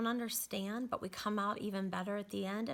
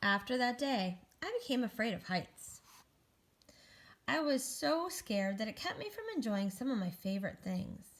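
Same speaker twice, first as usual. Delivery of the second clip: animated, measured storybook reading; picture-book narration; 3 dB louder than usual. Acted. Egg tells children about a great fall, storybook narration. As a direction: read to children with lifted key words.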